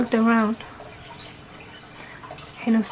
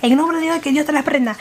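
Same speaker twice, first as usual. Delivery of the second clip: fervent Spanish prayer; 3 semitones higher, much faster than usual. Retold or imitated. Praying at the demon to drive it away, fervent. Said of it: "but I said it in Spanish".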